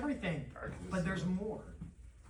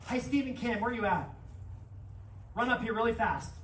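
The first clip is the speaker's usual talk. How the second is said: calling out; 2 semitones higher than usual. Real, not acted. Calling volunteers up on stage.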